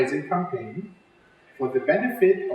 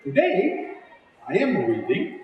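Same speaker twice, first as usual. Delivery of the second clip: put-on lively storybook read-aloud for kids; reading to children. A narrator's reading. Teacher reading a picture book to children, lively and clear. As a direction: read it like story time with little ones.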